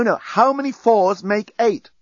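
slow, high, patient correction; slowed, emphatic quiz question; insistent repeat. A narrator's reading. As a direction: spell the question out slowly for a muddled pupil. Repeats the question to confused bomb.

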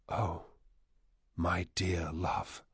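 soft, slow near-whisper; whispered yearning. A narrator's reading. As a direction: whisper it slowly with fear and yearning. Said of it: "and whispered".

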